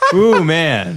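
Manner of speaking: high, slow, hammed-up nervous white guy; mock nervous white guy. Nervous white guy on a Compton corner, high and hammed-up. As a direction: whistle past trouble in a high put-on voice.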